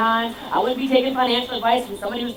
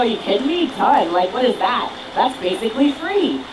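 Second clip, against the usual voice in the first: eager yes; 4 dB louder than usual. Retold or imitated. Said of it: "you go".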